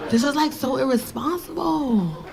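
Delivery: drawn-out mimicry of a disapproving daughter; slow, put-on teenage-style reproach; mock scolding. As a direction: drag out the complaint, mildly exaggerated.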